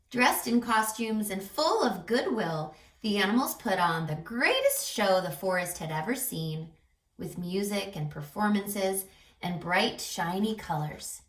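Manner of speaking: put-on lively read-aloud for young children; storybook narration. A narrator's reading. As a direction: tell it like a bedtime picture book. Reads picture book aloud.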